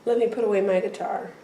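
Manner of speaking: soft, fast, unbothered imitation; retold calm. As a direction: play him unruffled, voice kept down. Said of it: "He just is so calm".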